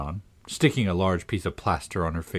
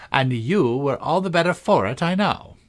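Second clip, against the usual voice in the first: lightly voiced triumphant Queen, rising high at the end; 5 semitones higher than usual. The Queen scoring a point over Alice, mildly triumphant. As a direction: crow a small victory. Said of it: "the Queen said triumphantly".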